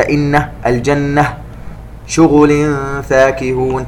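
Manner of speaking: slow, elongated tajweed chanting; Quran recitation. Shown as a demonstration. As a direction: recite it slowly and melodically. Recitation demo. (تلاوة مجودة بطيئة)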